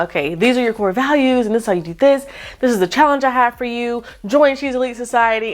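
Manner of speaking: bright smiling delivery; smile talk. Shown as a demonstration. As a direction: pitch it with an audible smile. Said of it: "And I'm talking with a smile".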